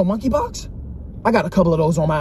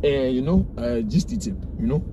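fake Italian accent; 4 semitones lower than usual. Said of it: "a fake Italian accent?".

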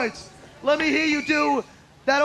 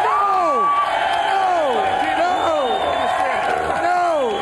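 emphatic no; 3 semitones higher, 3 dB louder, much slower than usual. Real, not acted. Host rejects bad impression loudly.

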